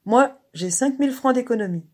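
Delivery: high, loud exclamation; proud triumphant outburst. A narrator's reading. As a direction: announce it in triumph. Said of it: "Elle s'écria triomphante".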